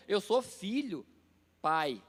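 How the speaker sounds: ordinary delivery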